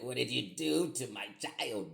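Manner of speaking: high, slow, drawn-out parental protest; re-enacted outrage. Upset father confronting whoever shaved his child's head, re-enacted outrage. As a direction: act out an appalled parent, pitch up and words stretched.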